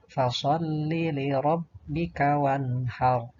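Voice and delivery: measured verse recitation with held consonants; Qur'an recitation. Shown as a demonstration. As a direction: recite it carefully as a model for pupils. Contoh bacaan ayat. (tilawah tartil untuk murid)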